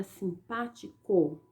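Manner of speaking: "simpático" slowly, broken into sim-pá-ti-co; slow teacher's breakdown of "simpático"; syllable breakdown. Shown as a demonstration. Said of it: "o co e o ti não são importantes".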